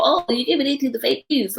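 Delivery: high, sneering mock voice of a Trump supporter; mocking Trump fans. Vlogger mocking Trump supporters' excuse, sneering mock voice. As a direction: parrot the fans with a scornful sneer. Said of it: "So this whole".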